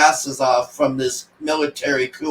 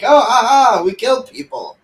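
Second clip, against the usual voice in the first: higher, louder fake chuckle, then rushed; mock laughing; 7 semitones higher, 4 dB louder than usual. Reviewer mimicking the family laughing after killing, mock laugh. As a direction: parody their carefree laughter.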